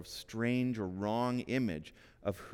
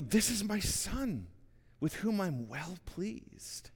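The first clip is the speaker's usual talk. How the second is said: much higher and slow, a soaring heavenly announcement; higher heavenly proclamation; 9 semitones higher, slower than usual. Acted. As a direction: lift it up high and slow like a voice from the sky. Voice from heaven, second take.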